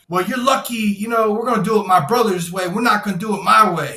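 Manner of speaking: imitating a gunman barking threats; mock yelled threat. Gunman taunting, gun drawn.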